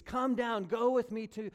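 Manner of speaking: high, loud pressing plea; urging. Retold or imitated. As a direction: press Jesus to come, loudly. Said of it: "urging Jesus".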